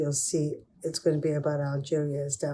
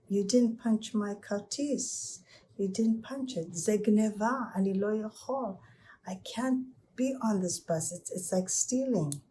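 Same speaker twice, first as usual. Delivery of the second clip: put-on higher, tearful child's plea; upset crying boy; 5 semitones higher than usual. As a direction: explain through tears to the driver.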